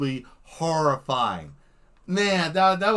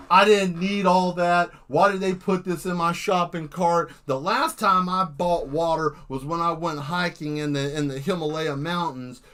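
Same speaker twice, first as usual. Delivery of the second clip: rambling madman. Retold or imitated. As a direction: ramble like someone who lost his mind at the film. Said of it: "You'll sound like that".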